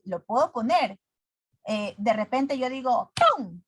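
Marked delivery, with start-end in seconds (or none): 3.4-3.6 bang sound. Shown as a demonstration. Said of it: "Estoy haciendo un sonido".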